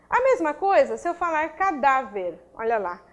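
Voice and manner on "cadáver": "cadáver" stressed on its middle syllable, dá. Shown as a demonstration. Teacher introducing an example word, "cadáver" stressed on dá. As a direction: say "cadáver" with the weight on DÁ. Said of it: "Sílaba tônica é o cadáver".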